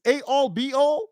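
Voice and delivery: mock-quizzical "A all, be all"; mocking mispronunciation. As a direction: say "A all, be all" with "A all" standing in for "end all". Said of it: "Why are you still speaking like this?".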